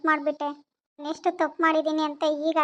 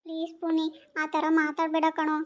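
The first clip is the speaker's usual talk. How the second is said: soft pleading; 6 dB quieter than usual. Acted. Wife pleads with husband.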